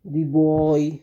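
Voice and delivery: put-on "the" long "दी" before "boy"; stressed "thee". Shown as a demonstration. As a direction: stretch "the" for emphasis. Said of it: "जोर देना हो तब हम लोग दी का उच्चारण".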